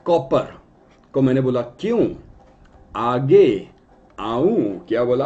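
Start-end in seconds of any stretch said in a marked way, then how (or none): 1.6-4.8 a hint of Shakti Kapoor's drawn-out aaoon; Shakti Kapoor line. Teacher mimics Shakti Kapoor for students, lightly voiced. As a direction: lightly mimic the villain's teasing question. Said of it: "आऊं कौन बोलता था? शक्ति कपूर".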